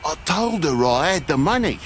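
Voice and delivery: angry rant. Acted. Father sent away to the farm rants at the sheriff, furious. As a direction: vent the grievance at full volume.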